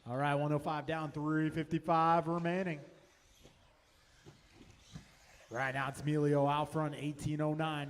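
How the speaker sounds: brisk live race calling, lap times rattled off; race play-by-play. Acted. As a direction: call the race live for the crowd.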